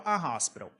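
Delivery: "a hospital" com H soprado; H aspirado. Shown as a demonstration. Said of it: "O H tem som de r". (hospital com H aspirado)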